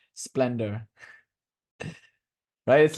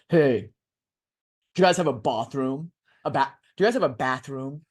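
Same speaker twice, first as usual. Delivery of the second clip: high schooler voice; 2 semitones lower than usual. Retold or imitated. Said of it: "in that high schooler voice where they're actually prepubescent".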